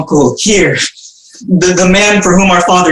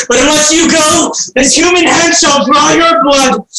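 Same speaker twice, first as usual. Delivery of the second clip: raving threat; 8 semitones higher than usual. Acted. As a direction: rave at the demons. Orestes threatens the Furies.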